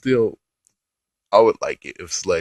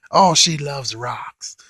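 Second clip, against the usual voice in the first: mocking dumb line; 5 semitones higher, much slower than usual.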